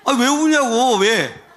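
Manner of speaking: half-laughing as he replays telling him off; mock scolding. Pastor replays scolding the crying man, laughing loud rebuke.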